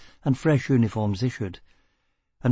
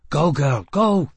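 urgent order, jumping higher at the end; urgent command; 4 semitones higher, 4 dB louder, slower than usual. A narrator's reading. Fugitive shoves his partner onward, urgent. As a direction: push her on with rising urgency. Urging her on during escape.

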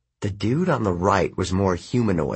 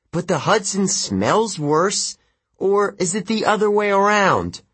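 taunting; 10 semitones higher, 3 dB louder than usual. Acted. Taunting the river gods.

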